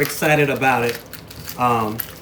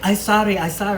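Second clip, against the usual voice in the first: mock Asian accent, pitched much higher; light Asian accent impression of a sorry stranger; imitated Asian accent; 9 semitones higher, 5 dB louder than usual. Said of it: "I just automatically go back to the accent".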